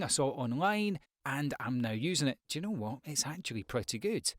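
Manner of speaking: relaxed, conversational, like talking to family; just chat it over with mum; telling mum about a find, easy and natural; casual chat. Shown as a demonstration. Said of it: "That's more in line with the way that you would speak to".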